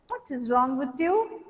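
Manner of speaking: gentle, polite question with a soft rise; mild, softly spoken polite inquiry. Shown as a demonstration. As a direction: ask it mildly, as courteous concern. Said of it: "you are very polite".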